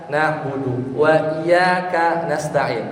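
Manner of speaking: slow recitation, single y in "iyyaka"; no doubled y in "iyyaka"; without tasydid. Shown as a demonstration. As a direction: recite slowly, "iyyaka" as i-yaa-ka. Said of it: "tanpa tasdid".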